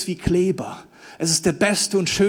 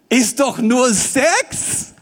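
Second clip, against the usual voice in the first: mock carefree; 3 semitones higher, much slower than usual. Mock voice of world.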